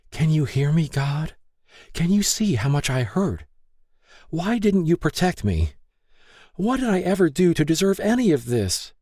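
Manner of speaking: lightly voiced, beg for an answer; a touch of anguish; fierce cry to God. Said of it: "her heart fiercely cried".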